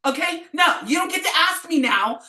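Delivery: high, loud shouted no; loud refusal. Retold or imitated. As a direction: shut them down hard. Refusing the late question.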